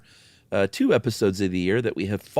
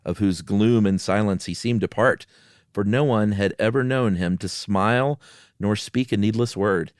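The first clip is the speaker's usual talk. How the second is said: measured storytelling read over eerie music; unhurried spooky story voice; story narration. Acted. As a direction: read it like a spooky campfire tale. Story reading resumes.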